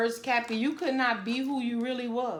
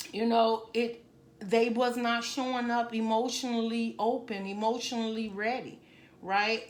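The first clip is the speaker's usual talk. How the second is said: getting emotional. Real, not acted. Tarot reader moved while reading for Capricorn, emotional. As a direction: let the feeling rise as you speak to her. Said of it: "I do not like getting emotional".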